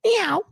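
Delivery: high mock meow. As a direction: meow like a clingy kitty. Girl follows like kitty cat.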